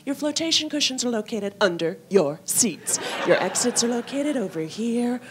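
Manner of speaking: lightly voiced deadpan stewardess announcement; a hint of bored cabin crew reading the rules; blunt stewardess safety talk. Stewardess briefing passengers on safety, lightly deadpan. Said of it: "the way I think they really mean them".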